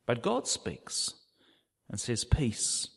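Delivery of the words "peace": calm a frightened man with one word; whispered peace. Acted. God calms the frightened Gideon.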